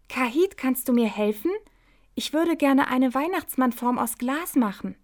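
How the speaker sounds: lightly voiced Hopsi, a little eager. Hopsi asks Kahit for help, lightly voiced eagerness.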